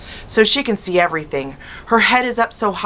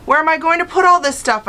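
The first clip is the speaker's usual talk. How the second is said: moaning; 10 semitones higher, 3 dB louder than usual. A narrator's reading. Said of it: "I moaned".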